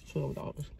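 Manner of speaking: "Twelve dollars" whispered in disbelief; whispered repeat. Real, not acted. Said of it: "twelve dollars at Starbucks".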